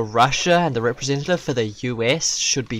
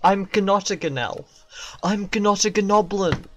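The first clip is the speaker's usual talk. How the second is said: higher, put-on gnome voice; gnome meme voice; 5 semitones higher, slower than usual. Gnome announcing you've been gnomed, higher put-on voice. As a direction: play a gnome, stretching the last words. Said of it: "I went gnome mode and everything".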